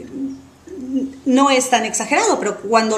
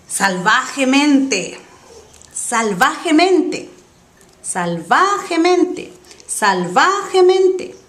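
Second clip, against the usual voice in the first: rising repetitions; 3 semitones higher, slower than usual. Shown as a demonstration. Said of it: "teacher repeats word for student".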